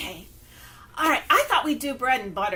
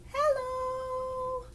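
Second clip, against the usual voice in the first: squeaky, much higher hello; 12 semitones higher, 5 dB quieter than usual. Shown as a demonstration. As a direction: reach for the highest note. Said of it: "as high as we can".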